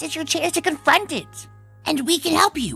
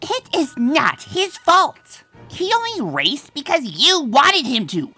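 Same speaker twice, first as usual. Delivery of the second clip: heated defence; 4 dB louder, slower than usual. Acted. Defends friend in quarrel.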